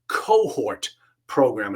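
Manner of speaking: cohort said slowly and drawn out; stress on cohort. Real, not acted. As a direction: lean on cohort and take it slow. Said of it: "you're gonna hear me stress the word cohort".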